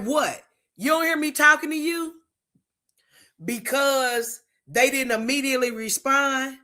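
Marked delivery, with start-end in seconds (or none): 0.0-2.1 irritated, quicker demand; mock an impatient partner; impatient snap. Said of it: "it's like, impatient".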